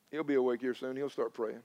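low, soft retold thought; quiet confiding. Preacher recalls texting friend before dawn, quiet confiding. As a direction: drop right down as if thinking aloud before dawn. Retells early morning prayer note.

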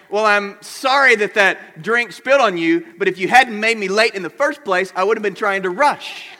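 hammed-up apology that throws the blame back; mock defensive apology. Hammed-up example of a bad apology.

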